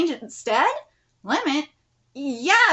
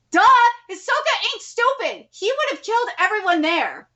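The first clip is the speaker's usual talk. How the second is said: scoffing disbelief; 6 semitones higher than usual. Real, not acted. Reader scoffs at the characters.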